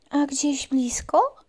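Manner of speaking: slow scared whisper; frightened whisper. Acted. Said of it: "przestraszyła się myszka".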